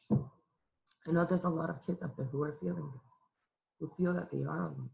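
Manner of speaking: choked-up and soft, fighting back tears; quietly tearful, voice catching; real crying. Real, not acted. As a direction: speak through tears you can't hold in. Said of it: "I'm crying right now".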